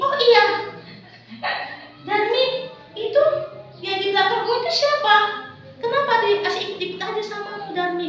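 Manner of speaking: lightly voiced nosy girl; curious girl Esra. Esra asks Darmi who follows her, quick and curious.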